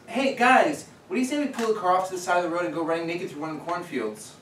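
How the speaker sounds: a hint of an excited friend proposing mischief; lightly imitated eager friend. Storyteller voicing Christy's suggestion to friends in the car, lightly eager. Voices Christy pitching a naked run.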